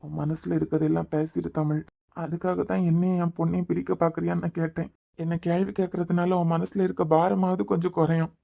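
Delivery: calm her down, let her unload; soft reassurance. Acted. Husband to wife, gently urging her to speak her mind.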